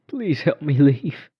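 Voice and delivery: put-on slow, high child plea; pleading ghost girl. A narrator's reading. Ghost girl pleading with narrator to help her leave, slow and high.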